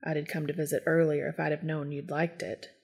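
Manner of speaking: low, hushed and tender; quiet, intimate murmur; soft reply. A narrator's reading. Bat's tender reply to friend.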